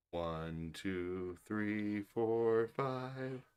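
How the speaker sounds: counting very softly; nearly whispering the count. Shown as a demonstration. Father counting softly for baby to repeat. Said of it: "You say it?".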